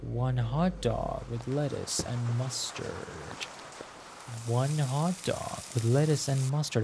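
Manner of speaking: unhurried, drawn-out recital; slow self-reminder. Real, not acted. Cashier repeating an order so as not to forget, slowly. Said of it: "I keep telling that to myself".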